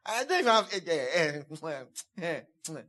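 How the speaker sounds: hammed-up tired heavy man, laughing; mock self-pity. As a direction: playfully mimic someone moaning about their weight. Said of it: "But when you now say".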